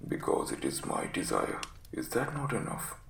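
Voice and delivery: very low, croaky invalid giving orders; croaking command. Acted. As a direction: croak a stern warning from the sickbed. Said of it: "was croaking".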